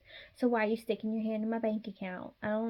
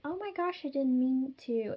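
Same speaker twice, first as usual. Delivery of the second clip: fake apology; 3 semitones higher than usual. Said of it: "they're gonna be like".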